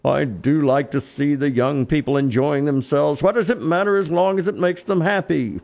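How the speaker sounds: a hint of a doting old grandfather; indulgent grandfather. Grandfather watching young people enjoy themselves, lightly indulgent. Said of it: "That's the grandfather speaking".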